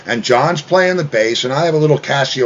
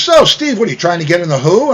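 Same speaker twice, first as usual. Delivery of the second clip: imitating Howard; 4 semitones higher, faster than usual. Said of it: "So Howard says".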